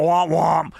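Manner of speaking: shouted womp womp sound effect; mock sad trombone. Host mocking a bad line, shouting womp womp.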